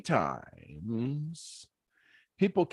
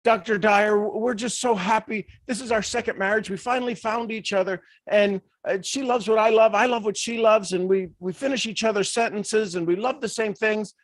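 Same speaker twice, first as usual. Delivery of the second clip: high, bubbly newlywed voice; gushing happy couple; 6 semitones higher than usual. Retold or imitated. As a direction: beam at the doctor like lovebirds. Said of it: "and they said".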